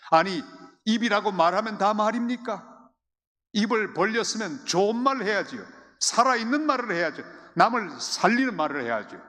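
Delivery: fervent preaching. Acted. Preacher urging the congregation, loud fervent preaching. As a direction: press the point home with rising fervour.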